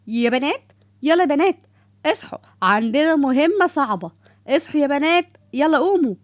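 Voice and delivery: put-on rally the girls out of bed; rousing wake-up call. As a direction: leader waking her crew, energetic. Waking the girls for mission.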